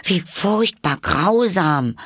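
high, loud slow exclamation; crying out. A narrator's reading. Alice hears of the death sentence, crying out aghast. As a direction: cry out aghast, stretching the words. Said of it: "rief Alice".

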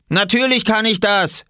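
high, loud retort; shouting back. A narrator's reading. Taunted boy defending his swimming, shouted retort. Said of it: "rief Robert zurück".

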